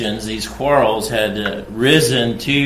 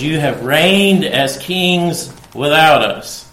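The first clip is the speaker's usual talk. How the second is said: a slow, lightly ironic read of the verse; tongue in cheek; 3 semitones higher, slower than usual. Retold or imitated. Preacher reading Paul's taunt to Corinth, mildly sarcastic. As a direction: let a touch of sarcasm sit under the words. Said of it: "sort of tongue in cheek".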